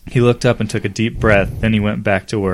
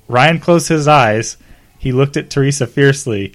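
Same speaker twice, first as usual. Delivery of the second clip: dramatic read; 4 semitones higher, 4 dB louder than usual. Shown as a demonstration.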